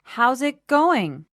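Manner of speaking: slow demo. Shown as a demonstration. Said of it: "let's listen again to that phrase".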